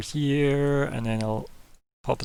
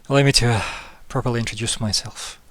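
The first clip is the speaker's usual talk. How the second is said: a bit out of breath. Acted. Roman finally heard after the thunder, a bit out of breath. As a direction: catch a breath midway through the introduction. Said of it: "as he's a bit out of breath".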